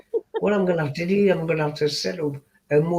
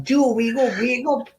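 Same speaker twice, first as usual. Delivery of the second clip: high mock call to wake Joe; calling to wake someone; 6 semitones higher, slower than usual. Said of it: "you got".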